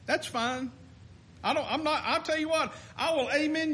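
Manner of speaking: chuckling through the words; a real amused laugh while talking. Real, not acted. Laughs at the quoted view.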